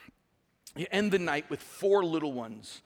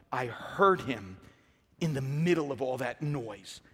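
low and deliberate; 3 semitones lower than usual. Real, not acted. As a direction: draw it out low and measured. First take of repeated testimony.

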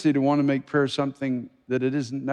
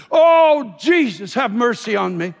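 high, loud plea with a long Oh; crying out unreservedly; 9 semitones higher, 8 dB louder, slower than usual. Acted. Preacher acting those calling out to Jesus, crying out. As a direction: cry out desperately for mercy. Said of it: "crying out to him unreservedly".

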